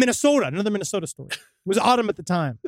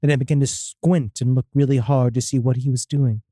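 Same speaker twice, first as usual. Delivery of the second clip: measured, slightly lower storytelling voice; spooky story reading; 5 semitones lower than usual. A narrator's reading. Host reads a listener's demon encounter, spooky story reading. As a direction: read out an eerie first-person account.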